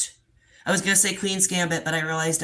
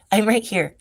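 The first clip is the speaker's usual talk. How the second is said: louder calls, pitch up; raised calling voice; calling the dog; 3 semitones higher, 6 dB louder than usual. Real, not acted. Calling deaf blind dog.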